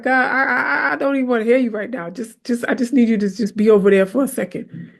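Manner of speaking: fast, exasperated plea; retold angry prayer. Preacher retelling her exasperated prayer to God, fast. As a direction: push God away, exasperated. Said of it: "I told God".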